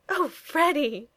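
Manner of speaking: slow, high-pitched choked exclamation. A narrator's reading. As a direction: draw it out, high, choking back giggles. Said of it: "she uttered in a choked voice".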